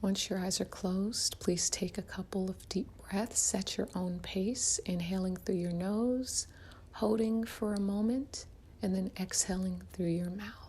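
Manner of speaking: soft-edged, unhurried meditation guide; guided meditation. Acted. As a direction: ease the listener gently into relaxation, leaving room to breathe.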